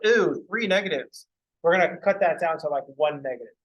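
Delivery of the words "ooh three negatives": slow, drawn-out mock groan at the minus signs; hammed-up disappointment; mock dismay. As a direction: sigh it out like the negatives are a tragedy.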